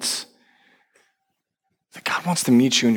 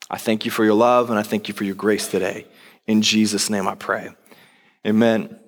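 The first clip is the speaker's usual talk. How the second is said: prayer. Acted. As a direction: pray it gently for the church. Leads congregational prayer.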